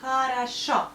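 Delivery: "Хорошо" as kha-ra-SHO in one go; whole-word "Хорошо", O only on the last syllable; correct vowel reduction. Shown as a demonstration. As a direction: say "Хорошо" with A, A and stressed O. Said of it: "So we pronounce O like O, only here".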